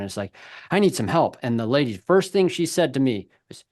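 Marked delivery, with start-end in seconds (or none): 0.7-1.4 retold out-of-breath plea, higher and louder; huffing and puffing. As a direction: act out asking for help while winded. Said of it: "I'm just huffing and puffing".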